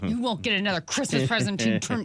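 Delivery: lightly voiced threat through clenched teeth; through gritted teeth. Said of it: "when you have to talk through your teeth".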